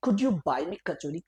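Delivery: slow, clear teacher demo; slow model sentence. Shown as a demonstration. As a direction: spell it out slowly for the class. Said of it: "तो बोलो".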